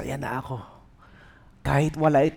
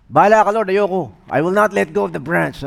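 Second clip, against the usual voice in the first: stubborn refusal; 3 semitones higher, 5 dB louder than usual. Retold or imitated.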